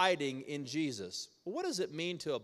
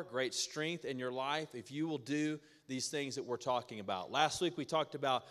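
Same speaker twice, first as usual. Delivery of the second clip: normal talking voice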